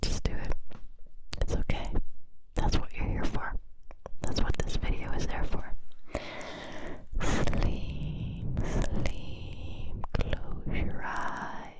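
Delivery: slow soothing whisper; guided sleep whisper. Acted. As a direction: coax them gently to sleep.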